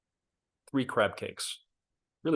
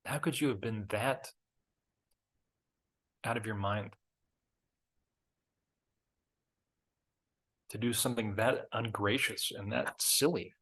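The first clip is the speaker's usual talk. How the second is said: cringing. Retold or imitated. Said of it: "I just cringe and go".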